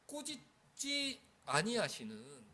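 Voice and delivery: solemn emphatic verse reading; slow proclaiming. Acted. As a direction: stretch out 꾸짖지 아니하시는 for weight. Verse phrase proclaimed again.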